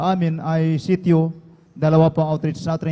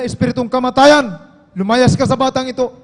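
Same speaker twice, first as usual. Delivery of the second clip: higher, louder commanding rebuke; rebuking a spirit; 5 semitones higher, 5 dB louder than usual. Retold or imitated. The beloved preacher rebuking the spirit of death over the child, loud command. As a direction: cast the spirit out with force.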